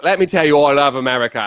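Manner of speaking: put-on English accent sliding into Australian; attempted English accent. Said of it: "If I met an English guy".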